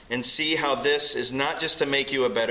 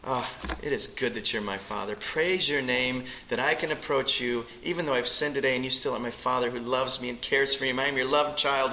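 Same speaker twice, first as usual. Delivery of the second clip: lingering prayer. Shown as a demonstration. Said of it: "and just linger over that".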